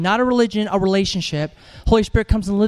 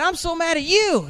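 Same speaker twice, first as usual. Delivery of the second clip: mock angry boyfriend; 7 semitones higher than usual. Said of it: "He said".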